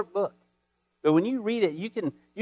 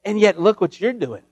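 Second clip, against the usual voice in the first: slowed-down prophet's accusation, louder; prophet's rebuke; 5 dB louder than usual. Retold or imitated. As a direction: lean on you and drag it out. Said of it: "so he could say".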